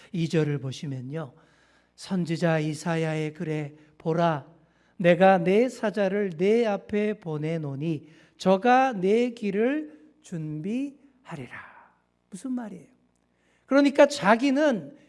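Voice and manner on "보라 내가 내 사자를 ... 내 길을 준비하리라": slow grave proclamation; solemn scripture reading. Acted. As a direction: read the prophecy slowly and weightily.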